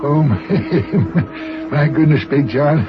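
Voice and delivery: laughing. Acted. Laughs over a surprise.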